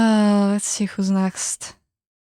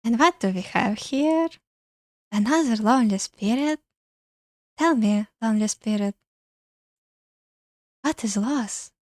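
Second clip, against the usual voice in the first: airy, eerie ghost voice; an eerie lonely spirit. Acted. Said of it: "airy voice".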